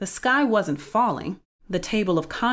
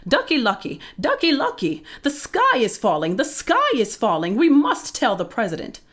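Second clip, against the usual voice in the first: high, excited hen alarm; clucking hen; 5 semitones higher, 3 dB louder than usual. A narrator's reading. Hen running to her duck friend with alarming news, high frantic clucking. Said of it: "ran to her friend Ducky Lucky and clucked".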